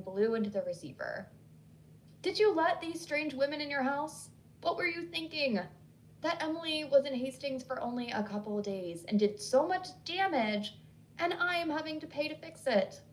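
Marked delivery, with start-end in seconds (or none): 2.2-13.0 mild yell. Acted. Hillary berating Sinnedy about the strangers, mock yell. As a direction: scold her in rising outrage. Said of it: "she yelled".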